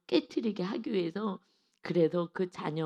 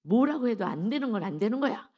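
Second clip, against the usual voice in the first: firm no; 3 semitones higher, 4 dB louder than usual. Retold or imitated. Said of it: "오은영 박사님 하는 얘기가".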